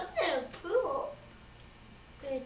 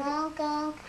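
silly clown. Pretend. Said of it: "Go do something clowny".

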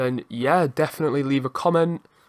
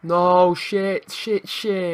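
higher, dismayed repeated swearing; real panic; 3 semitones higher, much slower than usual. Real, not acted. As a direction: watch it go wrong helplessly. Conceding during the game.

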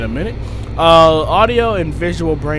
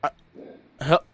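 mock cry for help; 9 dB louder, much slower than usual. Pretend plea for help.

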